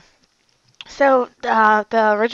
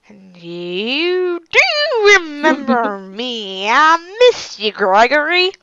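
ghostly reunion; 2 semitones higher, slower than usual. Acted.

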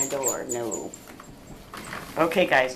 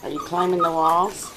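raised, louder teasing puppy talk; 5 semitones higher, 3 dB louder than usual. Real, not acted. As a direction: coo at the pups like they're toddlers. Owner teasing puppies in pen.

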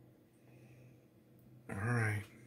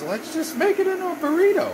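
chirpy retold suggestion; 5 dB louder than usual. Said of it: "so I says".

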